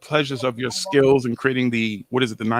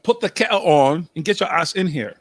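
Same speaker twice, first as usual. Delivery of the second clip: mock British accent, barely there; a half-hearted British accent; bad British accent; 3 semitones higher than usual. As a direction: try a British accent and miss. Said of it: "I don't know what accent that was".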